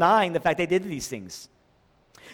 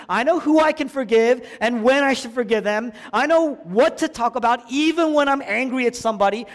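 louder, insistent, building in pitch; defiant self-assertion; 3 semitones higher, 4 dB louder than usual. Retold or imitated. False Christians refusing to be told what to do, defiant. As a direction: insist defiantly, piling up each claim.

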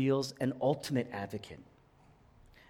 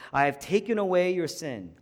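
"I have taken away" lifted with emphasis; deliberate emphasis on "I" and "taken away"; changed emphasis; 3 semitones higher than usual. Shown as a demonstration. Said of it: "change the emphasis a little bit".

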